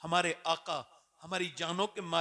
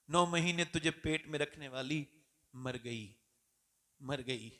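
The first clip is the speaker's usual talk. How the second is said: grieving; 6 semitones lower than usual. Acted. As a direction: let the grief sink the words. Grieving mother's death. (माँ की मौत पर धीमा दुख)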